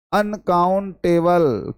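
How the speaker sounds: अनकाउंटेबल drawn out syllable by syllable; slow careful word. Shown as a demonstration. Teacher drilling अनकाउंटेबल for the class, slow and deliberate. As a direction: lay out अनकाउंटेबल slowly so it sticks. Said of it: "याद रखना".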